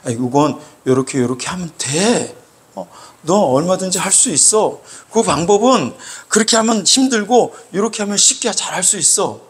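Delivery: gently coaching, step by step; patient explaining. Acted. Preacher models teaching someone who cannot do it, patient explaining. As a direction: explain it reassuringly, without heat. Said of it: "이렇게 조곤조곤".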